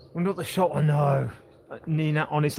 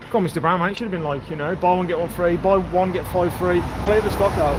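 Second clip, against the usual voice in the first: mock exasperated appeal; 5 dB louder than usual. Real, not acted. Mock pleading with shopkeeper.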